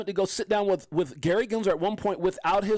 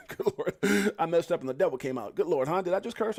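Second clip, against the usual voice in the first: usual speaking voice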